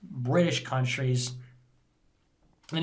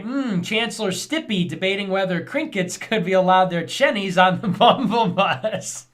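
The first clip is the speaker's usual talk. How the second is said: a lightly put-on posh British newsreader; mock British newsreader; 3 semitones higher, 3 dB louder than usual. Streamer mocking British news in a British accent. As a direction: read it like a twee British news anchor, laughing at the end. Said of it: "British News be like".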